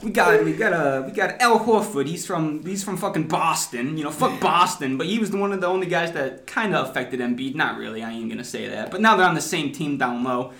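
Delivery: hammed-up Philly accent, sports fan bragging. Podcaster hypes the Sixers on request, mock Philly accent. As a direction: put on your best brash Philly accent. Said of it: "give it to us in your best Philly accent".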